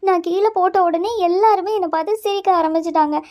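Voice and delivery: upset blaming. Acted. Blames friend for her misery.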